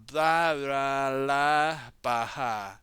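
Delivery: loud gibberish cry; frustrated cry. Acted. Jay venting his frustration at the others, loud gibberish cry. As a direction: blurt out nonsense in frustration. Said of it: "he cried".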